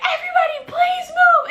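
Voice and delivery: very high, hammed-up panicked yell; frantic mom yelling. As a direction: imitate mom shrieking to clear the aisle. Mom clearing crowded plane aisle.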